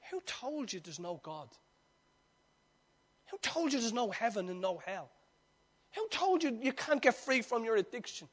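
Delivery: quiet sermon questions; hushed preaching. Acted. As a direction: bring it right down to a hush.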